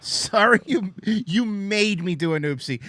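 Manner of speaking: childish fake sorry with oopsie; fake apology. Mocking non-apology card wording.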